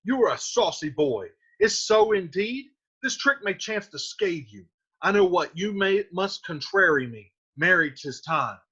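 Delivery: scolding Capulet. Acted. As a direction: uncle warning the saucy boy. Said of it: "Capulet says".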